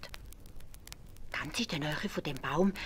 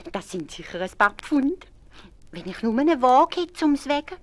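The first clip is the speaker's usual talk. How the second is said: high, slow gloating wife voice with a giggle; greedy wife; 9 semitones higher, 7 dB louder, slower than usual. A narrator's reading. Wife alone with the gold, high gloating voice.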